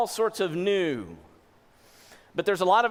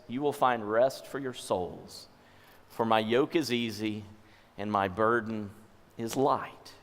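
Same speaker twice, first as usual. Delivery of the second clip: gentle reassurance; 6 semitones lower, 3 dB quieter than usual. Acted. Jesus's gentle words, read slowly.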